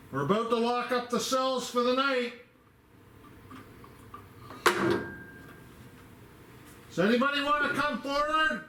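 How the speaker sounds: calling out. Real, not acted. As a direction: call out to the whole cell block. Calling out to spirits in cells.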